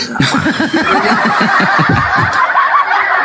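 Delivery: long, high-pitched laugh; high cackling laughter. Real, not acted. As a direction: burst into high, drawn-out laughter. Panel laughs during the argument.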